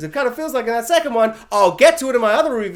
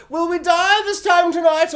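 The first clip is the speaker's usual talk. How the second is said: Johnny Depp mumbling; 9 semitones higher, 5 dB louder, slower than usual. Retold or imitated. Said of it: "whispering muttings of".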